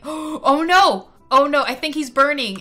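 sudden gasp, then a worried oh no; alarmed gasp. Real, not acted. Streamer spotting her Sim burning, alarmed. Sim's skin burning in the sun.

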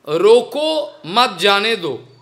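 "रोको" set apart, then "मत जाने दो"; intended phrasing. Shown as a demonstration. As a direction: pause after "रोको", keep "मत" with "जाने दो". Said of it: "उसका बोलने का मतलब था".

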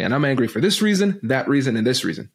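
mildly heated, counting off grievances; retold angry listing. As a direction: rattle off the reasons with mounting irritation. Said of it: "she glared at me and said".

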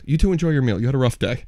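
very calm. Retold or imitated. Sislak tells the cousins to stay and eat, very calm. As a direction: calmly excuse your friends, voice sinking. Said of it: "Very calmly goes".

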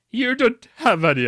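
high, loud crazed yell; yelling madly. Acted. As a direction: shout it wildly. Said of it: "I yelled madly".

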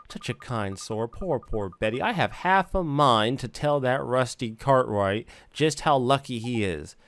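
lightly voiced fussing old woman; sentimental gossipy neighbour. Neighbour welling up over poor Betty, mildly sentimental. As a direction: gush gently, with a touch of pity.

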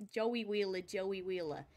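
Joey Wheeler style Brooklyn accent. Shown as a demonstration. Streamer finding a Brooklyn accent for chat, Brooklyn accent. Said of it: "here's a Brooklyn accent".

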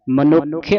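ਮਨੁੱਖ with the doubled kh held; ਮਨੁੱਖ said carefully, stressed kh; pronounce clearly. Shown as a demonstration. Teacher modeling ਮਨੁੱਖ for students, careful and clear. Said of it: "ਮਨੁੱਖ ਉਚਾਰਨ ਕਰਨਾ ਹੈ".

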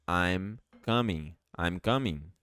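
I'm coming slow, coming with faint final G; slow model. Shown as a demonstration. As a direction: say it slowly for learners. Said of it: "é".

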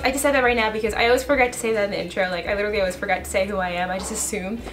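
hurried, rapid-fire aside; talking fast. Real, not acted. Vlogger explaining a forgotten intro to viewers, talking fast. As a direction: rush through it quickly. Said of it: "I'm talking really fast".

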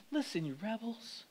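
the way Moses should have said it, quiet and calm; calm quiet version. Shown as a demonstration. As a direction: say it mildly, not yelling. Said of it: "It wasn't".

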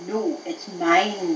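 slow, drawn-out mock growl; growled retort. Rival dog claims the bone, mock growl. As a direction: stretch it into a lightly growled claim. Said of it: "growled the other dog".

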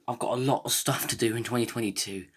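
breathless from running; talking while catching breath. Real, not acted. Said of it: "sorry if I'm out of breath".

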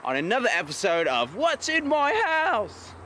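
mock show intro.

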